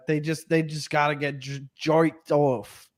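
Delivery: a light put-on Jersey accent, drawn out; half-hearted Jersey accent on the punchline. Joking about octopi to the hosts, light Jersey accent. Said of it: "That accent was, I thought you were going for, like, Jersey".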